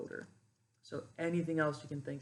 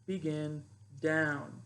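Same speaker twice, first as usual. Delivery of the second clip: command voice; 4 dB louder, much slower than usual. Shown as a demonstration. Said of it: "the pifo will say".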